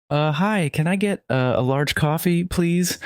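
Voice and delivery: stuttering. A narrator's reading. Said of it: "I stuttered".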